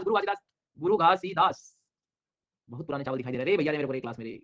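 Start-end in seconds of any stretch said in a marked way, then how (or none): 0.0-1.8 slow repeated recital of names; slow memory drill for students. Shown as a demonstration. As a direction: spell out the names slowly to memorize. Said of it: "ये याद रखना रे".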